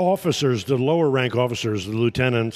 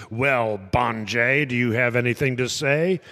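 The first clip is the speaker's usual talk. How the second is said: sarcastic derision. Retold or imitated. Officer addressing a soldier who lost his stripe, mock sarcasm. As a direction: imitate a scornful officer's sarcasm. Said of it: "sarcasm and, and derision dripping from his voice".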